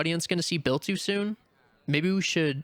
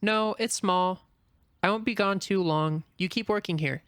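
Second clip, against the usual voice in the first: raised voice; calling back; 4 semitones higher than usual. Acted. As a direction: call through a closing door. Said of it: "Haru shouts back through the door".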